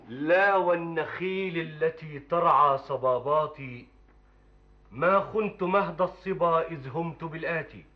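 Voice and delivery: slow, measured classical verse recital; poem recitation. Acted. Young man reciting his poem to the sheikh, solemn recital. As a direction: declaim each line with long pauses between.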